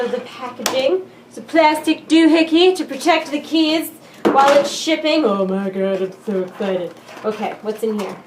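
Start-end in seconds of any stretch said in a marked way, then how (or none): 5.3-8.1 hushed awe. Real, not acted. Breathless quiet awe.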